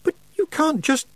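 very high voice, cut short; protest breaking off. A narrator's reading. Pupil begins protesting to witch, high and broken off. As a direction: start to object, then stop. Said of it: "Tiffany began, and stopped".

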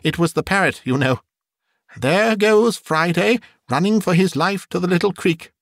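high, eager storytelling; excited cry. A narrator's reading. Scrooge retells Robinson Crusoe to the ghost, excitedly. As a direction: relive the tale with childlike delight. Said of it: "cried Scrooge".

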